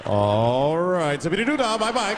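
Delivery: hesitant, then chirpy copy of slang; confused lawyer. Retold or imitated. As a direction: awkwardly play along with the slang.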